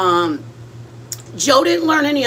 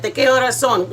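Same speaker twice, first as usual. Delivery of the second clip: imitating parents' Spanish. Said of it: "They spoke like that".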